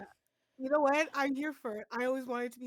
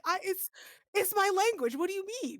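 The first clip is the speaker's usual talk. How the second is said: baffled disbelief; 9 semitones higher, faster than usual. Retold or imitated. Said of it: "I'm like".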